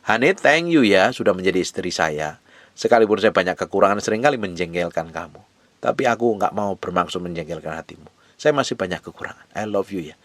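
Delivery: tender to wife. Retold or imitated. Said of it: "Saya sering ngomong sama istri saya begitu".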